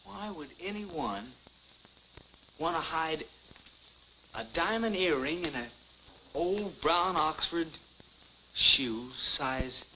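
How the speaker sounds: musing it over slowly, word by word; slow thinking aloud with long pauses; puzzled slow murmur; slow puzzling. Acted. Puzzling over the clue alone.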